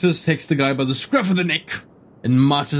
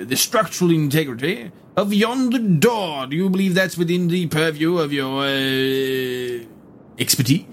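formal gentleman voice; 3 semitones higher, slower than usual. Acted. Herodotus gives orders.

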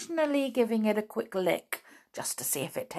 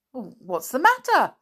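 high, louder, alarmed question; 7 semitones higher, 6 dB louder than usual. A narrator's reading. Binkle questions the doctor, in alarm. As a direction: jump up in pitch with worry. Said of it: "asked Binkle in alarm".

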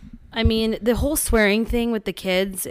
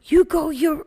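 imitated angry toddler; 7 semitones higher, 4 dB louder than usual. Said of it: "And he's like".

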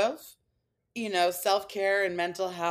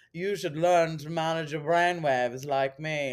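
slow, put-on self-styled guru; lightly mock a smug online guru, slowly; nauseating guru voice; 3 dB louder than usual. Self-made guru advising followers on brainwaves, lightly mocked nauseating voice. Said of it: "so nauseated by the sound of this man's voice".

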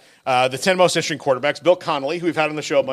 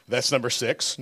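usual speaking voice

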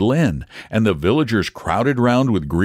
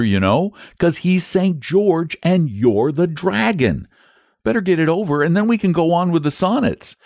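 put-on high boyish voice, scolding; a boy lecturing his friend; 8 semitones higher than usual. A narrator's reading. Boy urging the dragon to fight, high and pushy.

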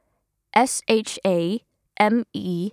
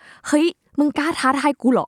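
mock challenge; 5 semitones higher than usual. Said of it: "เวลาเขาพูดอย่างงี้".

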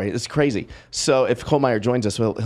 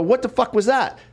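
incredulous demand, pitched up; retold confrontation; 8 semitones higher than usual. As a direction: re-enact confronting someone in disbelief.

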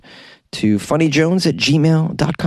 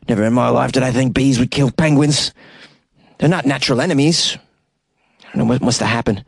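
put-on Cape Town accent. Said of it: "if this is a Cape Town accent I'm doing".

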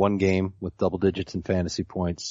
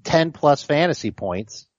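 nerd voice. Pretend. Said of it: "Can you do it in the nerd voice?".

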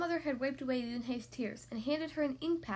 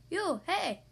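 teasing; 5 semitones higher than usual. A narrator's reading. Boy teasing with name.

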